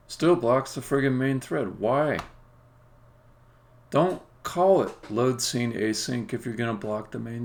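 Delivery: exasperated, mildly heated rant; angry ranting. Real, not acted. Programmer ranting about the blocked main thread, angry and exasperated. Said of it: "I get all angry and ranty".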